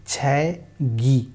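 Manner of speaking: छैगी with the k softened to g; carry-over pronunciation. Shown as a demonstration. Teacher showing how we will read the joined word, carry-over pronunciation. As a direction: slowly run छैगी together as chhe-gi. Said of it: "इसको हम पढ़ेंगे".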